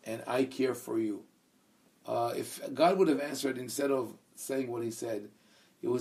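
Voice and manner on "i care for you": "I" given the weight; emphatic "I" before care for you; stress on I. Shown as a demonstration. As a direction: lean on "I" at the start. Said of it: "they emphasize the word "I".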